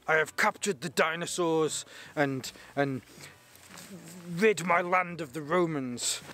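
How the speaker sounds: a lightly put-on Finnish accent, proud warrior; hulking Finnish hero boasting to his wife in a weak Finnish accent; terrible Finnish accent. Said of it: "my terrible Finnish accent".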